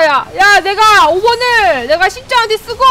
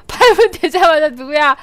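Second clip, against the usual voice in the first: lower amused repeat; 4 semitones lower than usual. Real, not acted. Repeat, lower, amid laughter.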